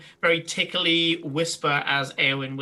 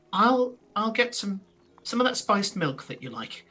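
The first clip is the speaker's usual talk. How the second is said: a hint of a hospitable shopkeeper; shopkeeper character; 5 semitones higher than usual. Game master voices the shopkeeper offering milk.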